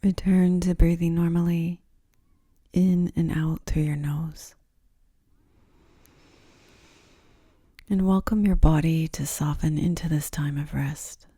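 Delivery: unhurried, soothing guidance into rest; guided yoga nidra. Acted. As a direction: ease the listener down gently, phrase by phrase.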